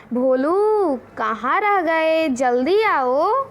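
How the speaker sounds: slow drawn-out call across a distance; mother calling her son home from inside; calling from the house. Retold or imitated. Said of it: "उधर से बोल रही है घर में से". (घर से पुकारती माँ, धीमी खिंची आवाज़)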